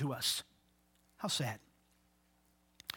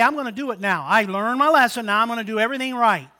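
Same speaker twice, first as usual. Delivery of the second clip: overconfident promise; 2 semitones higher, 6 dB louder, faster than usual. Retold or imitated. Mocking resolution quote.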